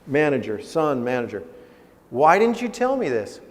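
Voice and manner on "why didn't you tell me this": high, insistent fatherly question; imitating a father's dismay, pitch raised. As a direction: press the question as a taken-aback dad. Father's question acted again.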